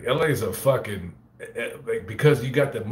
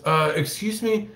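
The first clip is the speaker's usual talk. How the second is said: high, slow imitating a girl fan; 10 semitones higher than usual. Girl at the Fresno cemetery stops him, high imitated girl voice. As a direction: put on a polite young woman's voice, pitched up. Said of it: "she goes".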